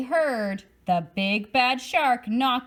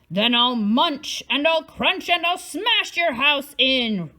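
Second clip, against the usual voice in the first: a mock roar, a bit louder; shark roar; 4 semitones higher, 5 dB louder than usual. Shark threatening the little fish, hammed-up roar. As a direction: threaten big and hammy. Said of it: "roared the shark".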